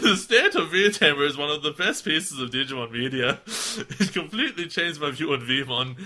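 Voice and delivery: loud mock-Irish reading; exaggerated Irish-like lilt through laughter; hammed-up put-on accent, like bad Irish. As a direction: declaim in a badly faked Irish accent. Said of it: "It's like my Irish accent".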